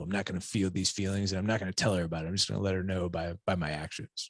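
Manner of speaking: soft, fast, sulky muttering; quietly resentful. Retold or imitated. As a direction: keep the resentment under your breath. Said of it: "quietly kind of resentful".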